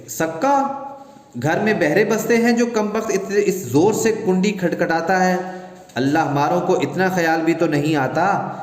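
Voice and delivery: high-pitched scolding complaint; outraged wife fussing about the noise; indignant outburst. Acted. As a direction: scold the careless water-carrier. Wife scolds noisy water-carrier.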